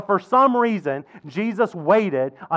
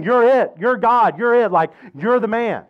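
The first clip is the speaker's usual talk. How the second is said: higher-pitched, punchy affirmations; emphatic declaration; 3 semitones higher than usual. Acted. Peter tells Jesus he is the one, emphatically. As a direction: hammer out each short line with conviction.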